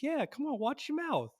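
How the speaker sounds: high, scolding aunt voice; imitating Stella telling Joe off. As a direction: tell him off like a fed-up aunt.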